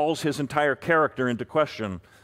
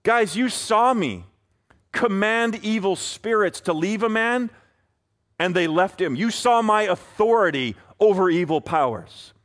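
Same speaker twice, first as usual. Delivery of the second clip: a light Jesus voice reminding his friends; voicing Jesus; 4 semitones higher than usual. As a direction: remind the disciples what they saw. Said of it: "Jesus is saying".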